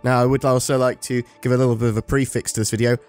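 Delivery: talking through a painful sore throat; sick with covid. Real, not acted. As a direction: ill voice, talking hurts. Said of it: "It hurts to talk".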